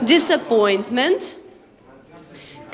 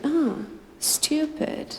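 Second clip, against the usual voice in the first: imagined scornful thought; 3 semitones higher, 7 dB quieter, slower than usual. Retold or imitated. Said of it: "somebody will look at me and think".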